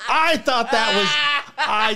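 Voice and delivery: words pushed out through laughter, starting high and loud; can barely get it out for laughing. Real, not acted. Laughing at ironic death news.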